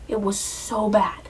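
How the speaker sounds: slow, breathy whisper of disgust; hushed, voiceless despair. Real, not acted. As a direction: whisper it like a grim confession. Whispered verdict.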